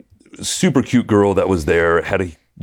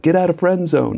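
high-pitched little voice in the head; little inner voice; 10 semitones higher than usual. Retold or imitated. Inner voice urging him out of friend zone, little voice. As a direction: pipe up high as a nagging thought. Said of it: "the little voice is like".

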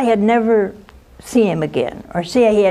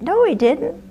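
indignant denial; 9 semitones higher than usual. Retold or imitated. Protesting to the courthouse girl.

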